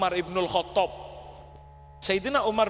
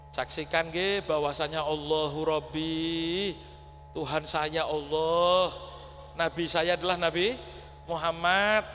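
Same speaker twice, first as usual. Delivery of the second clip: gentle talqin; 4 semitones lower, slower than usual. Acted. Talqin words said to infant.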